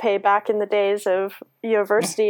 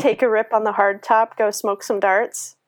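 hammed-up Canadian accent; laying on Canadian slang. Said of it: "ridiculous, over-the-top, fake Canadian accent".

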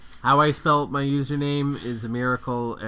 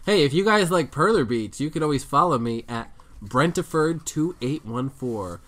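lightly voiced radio host plug; radio guy voice. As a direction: read it like a radio DJ. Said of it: "sound like a radio guy".

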